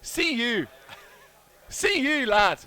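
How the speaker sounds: loud, high mock-Irish shout; put-on accent call. Teasing the Irish team, loud mock Irish accent. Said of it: "the accent should stop".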